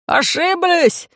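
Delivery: high, slow, eager squeal; eager high cry. Acted. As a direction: squeal it out in frantic agreement. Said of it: "истово закивал головой парень".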